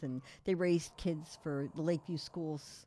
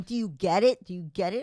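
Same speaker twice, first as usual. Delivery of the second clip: teasing Joe; 2 semitones higher, 6 dB louder than usual. Retold or imitated. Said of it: "And Joe's going".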